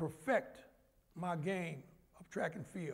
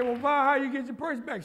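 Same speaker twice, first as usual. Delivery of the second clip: amazed question; 6 semitones higher, 9 dB louder than usual. Retold or imitated. Father's retold question, loud.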